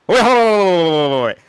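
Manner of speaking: high, loud wait-wait protest; urgent interruption. Real, not acted. Player halting the host before buzz-in rules, urgent interruption. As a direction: cut in and halt everything.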